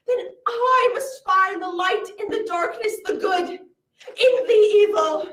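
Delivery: booming fantasy cartoon narrator intro; epic trailer narration. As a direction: announce the world like a film trailer.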